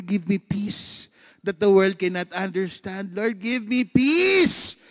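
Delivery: slow, drawn-out pleading prayer; plain-voiced slow plea for peace. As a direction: stretch each word like a begging prayer. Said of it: "Alam mo yung sinabi ko kay Lord".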